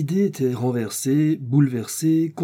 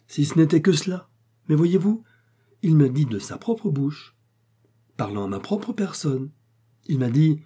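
agitated; 5 semitones higher than usual. Acted. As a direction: blurt it out in a fluster. Porter agitated, telling family.

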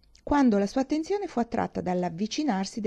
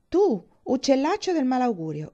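raised, mildly shouted retort; indignant cry; 6 semitones higher, 4 dB louder than usual. A narrator's reading. Thorpe rebuking Morland's doubts, raised indignant cry. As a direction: cry out in mock outrage. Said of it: "gridò Thorpe".

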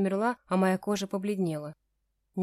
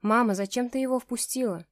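ordinary delivery

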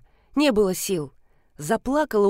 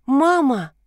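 put-on child's voice; 4 semitones higher, 4 dB louder than usual. Child's voice on the phone.

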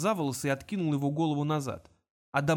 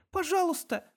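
put-on higher girl's plea, holding it together; controlled plea; 14 semitones higher than usual. A narrator's reading. Girl begs Kong, trying to stay composed. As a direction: beg while keeping composure. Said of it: "стараясь сохранить самообладание".

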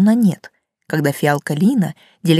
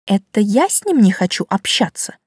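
indignant; 2 semitones higher than usual. Acted. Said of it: "возмутилась я".

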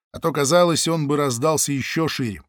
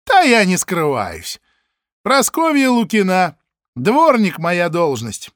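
slow, louder, drawn-out answer; slow, deliberate; 4 semitones higher, 6 dB louder, slower than usual. Acted. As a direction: spell it out for the dim officer. Паша нарочито медленно. (нарочито медленно)

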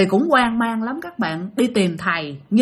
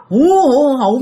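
loud imitated wail; mock crying; 3 semitones higher, 6 dB louder, slower than usual. Narrator imitates the possessed mother bursting into tears, mock crying. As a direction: wail "hu hu" in a storyteller's mimicry. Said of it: "Mẹ đổ lên mẹ khóc".

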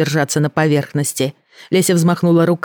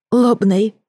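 sobbing; 6 semitones higher than usual. Acted. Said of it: "между двумя всхлипами".

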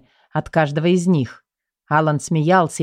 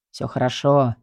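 reassuring; 3 semitones lower than usual. A narrator's reading. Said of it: "мысленно успокоил Рэдклифф".

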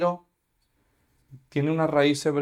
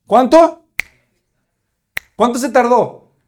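astonished question; 7 semitones higher, 10 dB louder than usual. Acted. Preacher voices astonished question.

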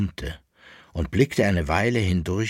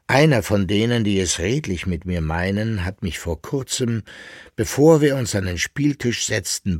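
a raised, urgent confiding voice; anxious patron voice, a bit louder; worried old patron; 6 semitones higher, 4 dB louder than usual. Acted. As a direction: hush it like a secret but keep pressing. Barvitius confides worried news.

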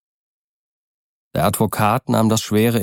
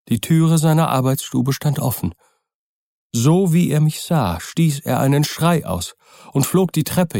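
put-on frightened old servant; 6 semitones higher than usual. A narrator's reading. Poole recounts the scene.

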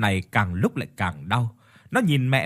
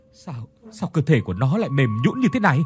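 stammering. Acted. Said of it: "Ông lắp bắp".

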